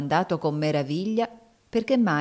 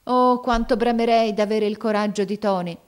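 louder, yearning cry; longing exclamation; 5 semitones higher, 5 dB louder than usual. A narrator's reading. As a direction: wish for it with all his heart. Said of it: "ed esclamò".

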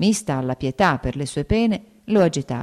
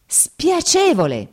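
much higher, louder, slow drawn-out outcry; outraged cry; 12 semitones higher, 5 dB louder, much slower than usual. A narrator's reading. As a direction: fling his word back at him. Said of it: "gridò lei". (grido indignato, molto alto e lento)

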